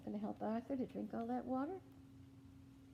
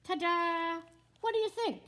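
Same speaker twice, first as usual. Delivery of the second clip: high, loud ta-da; proud cartoon reveal; 5 semitones higher, 8 dB louder than usual. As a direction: present it proudly. Max proudly showing his painting.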